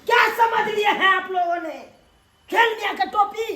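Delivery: furious demand; angry shout. Acted. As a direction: yell it in outrage. Angry son-in-law confronts family.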